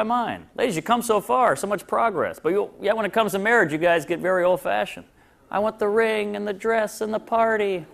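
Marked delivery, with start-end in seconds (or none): 5.5-7.9 mock bride voice. Mocking ladies wanting weddings.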